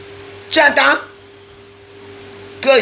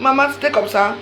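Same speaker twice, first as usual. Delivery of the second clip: mocking the fans; 3 semitones higher than usual. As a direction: imitate them wailing too late. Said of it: "vous allez dire que".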